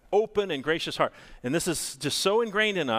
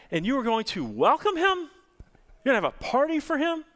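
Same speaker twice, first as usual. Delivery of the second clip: put-on indignant older son, rising higher and louder toward the end; older son's complaint; 6 semitones higher, 3 dB louder than usual. Older brother protesting to his father, indignant and rising. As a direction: voice the older brother who thinks the party is unfair.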